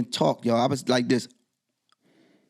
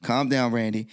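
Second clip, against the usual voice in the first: calming himself; 3 semitones lower than usual. Retold or imitated. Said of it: "I said".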